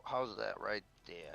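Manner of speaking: usual speaking voice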